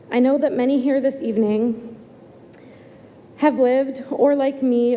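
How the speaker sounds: a bit out of breath, nervous. Real, not acted. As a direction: speak while catching your breath. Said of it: "Sorry, I'm catching my breath".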